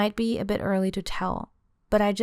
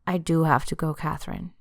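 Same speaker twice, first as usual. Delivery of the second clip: put-on insisting boyfriend; 2 semitones lower than usual. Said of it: "he insists".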